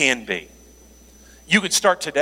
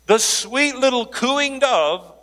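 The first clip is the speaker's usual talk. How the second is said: mock sweet; 7 semitones higher, slower than usual. Mock-sweet dove description.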